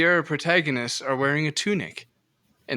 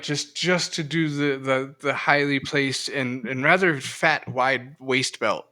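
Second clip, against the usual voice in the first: out of breath; slower than usual. Real, not acted. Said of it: "I ran out of breath trying to say all that".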